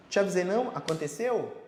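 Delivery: a light told-you-so quip, rising on não; mild gloating at someone who was warned; smug told-you-so. Acted. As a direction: tease the other person lightly with te avisei. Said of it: "virar pra pessoa e falar assim".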